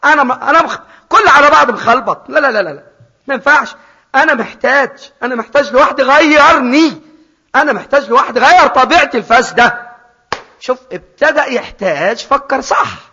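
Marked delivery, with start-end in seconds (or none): 0.0-9.9 pleading sinner. Acted. Preacher voices the son crying out.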